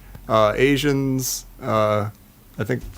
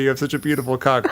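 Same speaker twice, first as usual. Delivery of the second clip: awkward clipped line; faster than usual. Retold or imitated. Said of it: "so awkward and clipped".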